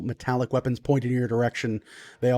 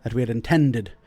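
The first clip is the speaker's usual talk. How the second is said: lightly voiced lord, measured and formal; hint of an old noble host, pausing to choose words; dwarf lord. Game master plays the Lord.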